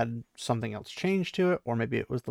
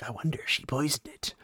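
suspicious murmur; 5 dB quieter than usual. Pretend. Mock paranoid thought about soup.

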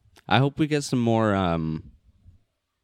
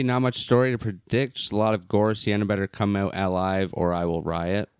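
tripping over the words; rushed, fumbled reading aloud; stumbling read. Shown as a demonstration. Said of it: "you stumbled over so many words".

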